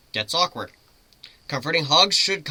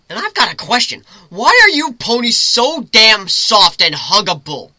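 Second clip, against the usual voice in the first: gushing hug question; 8 semitones higher, 12 dB louder than usual. Acted. The human gushing to Lyra about huggable ponies, loud and excited. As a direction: squeal it out, overwhelmed by fluffiness.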